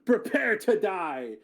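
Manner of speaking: lightly voiced warrior threatening foes; hint of battle taunt. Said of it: "Yara just says".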